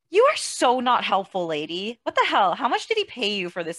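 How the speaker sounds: mock indignation. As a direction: tell the useless therapist off. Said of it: "It's like".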